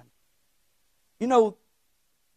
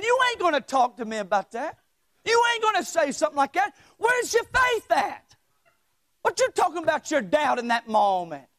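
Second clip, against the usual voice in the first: higher, heated mock rebuke; in-your-face scolding; 6 semitones higher than usual. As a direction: get right up in his face and scold. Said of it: "right up in his face saying".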